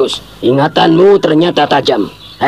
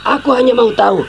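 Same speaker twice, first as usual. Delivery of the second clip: higher, hard-edged insistence; angry; 8 semitones higher than usual. Acted. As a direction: press him for an answer. Father keeps scolding.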